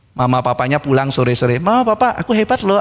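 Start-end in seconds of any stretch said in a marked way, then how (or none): 1.6-2.8 put-on child boasting.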